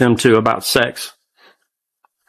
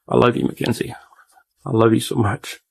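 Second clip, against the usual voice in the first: softer, a whispered goodbye; 3 semitones lower, 5 dB quieter than usual. Real, not acted. Father whispering his love to his daughter on video. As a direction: breathe the words out as a whisper.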